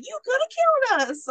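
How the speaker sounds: high-pitched, overdramatic complaint; mock dramatic. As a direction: imitate a man making a big fuss. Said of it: "I feel like you're being dramatic".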